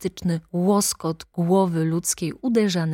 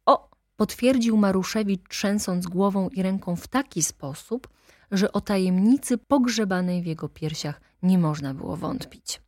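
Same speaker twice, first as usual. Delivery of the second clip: plain reading voice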